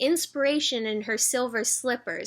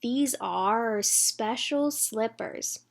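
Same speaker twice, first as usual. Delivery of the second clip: put-on thoughtful girl; much slower than usual. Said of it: "she thought".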